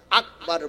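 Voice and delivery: আকবার with a clear falling end; correct takbir. Shown as a demonstration. Preacher teaching the crowd the right call, slow and falling. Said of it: "আকবার বলবেন".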